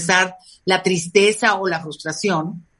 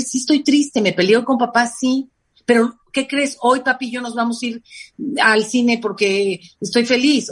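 modeled mom talk; 2 semitones higher than usual. Shown as a demonstration. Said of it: "Es preferible decir".

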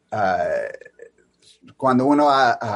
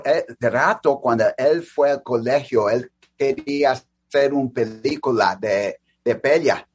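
American accent Spanish. Real, not acted. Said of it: "disculpa mi español porque es mi segundo idioma".

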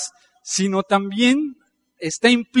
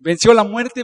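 louder, ringing declaration; proclaiming louder; 3 semitones higher, 7 dB louder than usual. Acted. Preacher to congregation on Christ's victory, proclaiming louder.

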